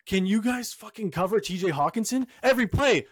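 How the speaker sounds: reliving a fed-up yell at the game; frustrated yelling. Retold or imitated. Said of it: "I was, I was getting so".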